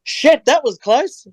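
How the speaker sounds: put-on high, slow French accent; lightly voiced French guy, startled; relieved Frenchman popping out of a bin. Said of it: "this French head pops up".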